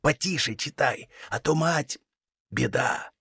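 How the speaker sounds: father hushing his daughter so the mother won't hear; hushed conspiratorial voice. A narrator's reading. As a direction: keep it secret from the mother. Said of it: "Он хитро подмигивал".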